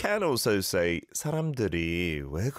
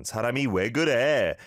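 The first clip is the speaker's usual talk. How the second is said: exasperated; 3 semitones higher, 4 dB louder, much faster than usual. Shown as a demonstration. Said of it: "good pronunciation".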